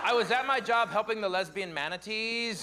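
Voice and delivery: lightly voiced gushing liberal, fast at the start; a touch of breathless outrage; liberal impression. Comic doing a liberal for the conservatives, light gushing voice. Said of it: "my impression of the liver".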